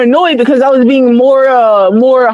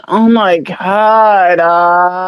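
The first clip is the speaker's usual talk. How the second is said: put-on whiny girl voice; 5 semitones lower, much slower than usual. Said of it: "It sounded like this".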